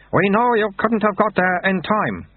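high-pitched, slow reassurance; soothing. A narrator's reading. Monk consoling Lutze over being late, soothing. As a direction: soothe him, drawing the words out. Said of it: "he said soothingly".

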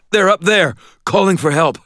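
high, urgent, winded voice; choked out. A narrator's reading. Winded man warning landlady of trapped neighbours, choked out. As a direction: push the warning out through choking breath. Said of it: "I choked out as soon as".

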